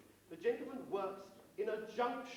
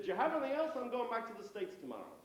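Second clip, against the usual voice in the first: higher mock-American tourist; American accent; 3 semitones higher, 3 dB louder, faster than usual. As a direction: ask briskly in a put-on American accent. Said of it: "that's my American accent".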